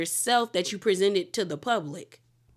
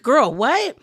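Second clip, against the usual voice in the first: put-on louder, higher "girl, what?" in disbelief; shocked; 5 semitones higher, 5 dB louder than usual. The ladies react to Babe's dying news, louder shock. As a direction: react like the news just hit you.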